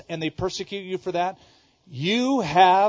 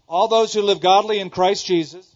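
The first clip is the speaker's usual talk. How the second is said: "All those" called out louder to the crowd; preacher calling the verse out louder for the crowd to finish; louder prompt; 3 semitones higher, 7 dB louder than usual. Real, not acted. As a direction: raise the voice to coax the congregation. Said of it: "Come on, do you".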